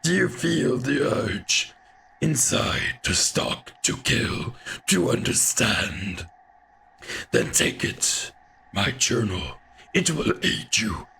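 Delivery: a lightly voiced old hunter, raspy and half-whispered; a hint of a weathered hunter, rasping in a breathy half-whisper. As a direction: growl it out like an old hunter in the dark. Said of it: "I can't do this voice for very long".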